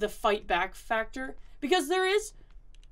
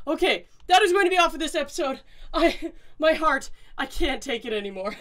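shaken and rattled; 4 semitones higher, 5 dB louder than usual. Real, not acted. Shaken ending of episode.

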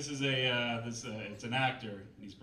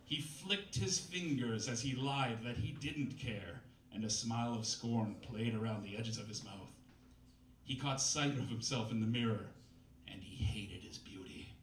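lightly overwrought novel narration, slowing on big lines; dramatic story reading. Acted. Comedian reads a bad novel to the crowd, mock-dramatic narration. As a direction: read the purple prose with mock gravity.

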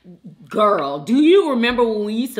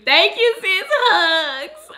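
tearful thanks; 10 semitones higher, 6 dB louder, much slower than usual. Real, not acted. Touched by viewer comments.

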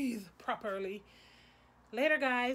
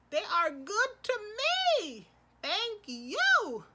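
gushing thanks; 11 semitones higher, slower than usual. Real, not acted.

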